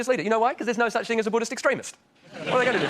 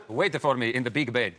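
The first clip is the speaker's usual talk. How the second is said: mock seductive; 9 semitones lower, slower than usual.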